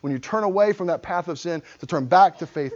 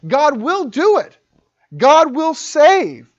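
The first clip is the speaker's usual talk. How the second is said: slow, loud and high proclamation; preaching loud; 10 semitones higher, 9 dB louder, slower than usual. Real, not acted. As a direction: drag every word out, booming. Preaching God's certainty.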